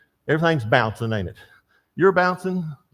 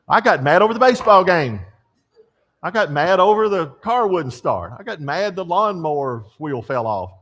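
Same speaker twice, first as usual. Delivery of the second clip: mock angry rant; 5 semitones higher, 5 dB louder than usual. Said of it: "Really mad".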